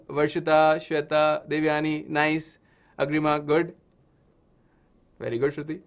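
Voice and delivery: ordinary talk, nothing marked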